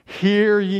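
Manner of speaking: hear ye, proclaimed slow and solemn; official proclamation. Shown as a demonstration. Preacher showing Isaiah's official call, proclaimed. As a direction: sound like a royal herald. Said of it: "you see how he's getting official now?".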